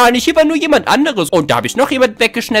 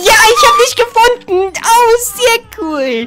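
triumphant; 10 semitones higher, 4 dB louder, slower than usual. Real, not acted. Found the last hider.

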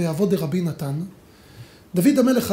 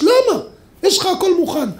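high, amused disbelief with a laugh; half-laughing "why, it's all ready"; amazed question; 9 semitones higher, 4 dB louder than usual. Retold or imitated. People question King Solomon again.

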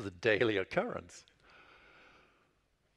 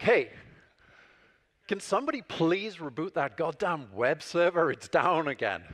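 calling out louder across the office; shouting across the room; 4 semitones higher, 4 dB louder than usual. Retold or imitated. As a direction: raise it to reach the team across the room. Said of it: "I would shout across the room".

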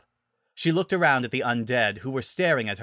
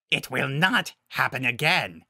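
beastly villain voice, raised in pitch; menacing werewolf alpha; 3 semitones higher than usual. Acted. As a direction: threaten like the pack leader.

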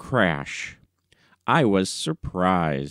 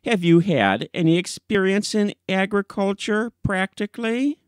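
put-on sceptical old gentleman; 10 semitones higher than usual. Old man interrogates the editor.

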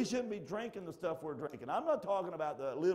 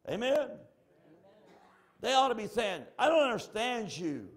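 preaching call; 8 semitones higher, 7 dB louder than usual. Real, not acted. Preacher calling for response.

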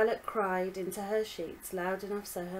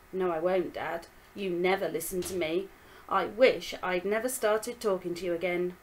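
screamed; 4 dB louder than usual. Acted. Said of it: "Violet screamed".

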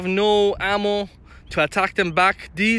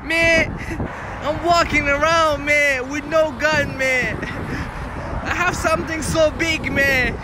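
higher-pitched mock street-guy voice; joking tough-guy character; 6 semitones higher than usual. Joker bragging about walking around Scarborough, mock tough-guy voice. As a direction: play a comic tough guy, tagging man on.

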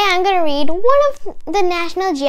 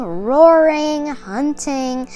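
storybook read-aloud voice; kids' book narration; reading to children; slower than usual. A narrator's reading. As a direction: read it like a picture book to little kids.

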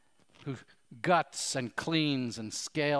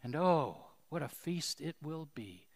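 earnest, measured prayer voice; closing prayer. Acted. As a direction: lead the congregation in prayer. Closing prayer led by pastor.

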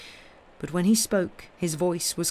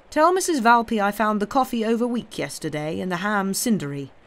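lightly voiced gentleman indulgently chiding his servant; a touch of a fussy master giving orders; mildly indulgent master scolding Tom; 4 semitones higher, 4 dB louder than usual.

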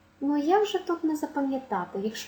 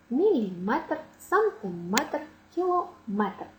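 «Міліметр, сантиметр, кілометр» stressed on -МЕТР; stress on last syllable; slower than usual. Shown as a demonstration. Teacher drilling stress on the final -метр syllable. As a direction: land each word on -метр. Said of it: "наголос буде падати на останній склад".

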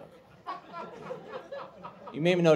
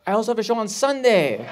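higher, louder hopeful shout; desperate calling out; 7 semitones higher, 6 dB louder than usual. Retold or imitated. Comedian chasing a fan with another show, desperate calling. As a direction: yell it after her as she leaves.

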